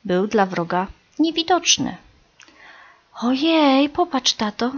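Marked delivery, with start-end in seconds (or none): 3.2-4.7 high, louder thrilled squeal; excited squeak. A narrator's reading. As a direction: squeak with delight at what you see. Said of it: "zapiszczały podekscytowane pisklęta".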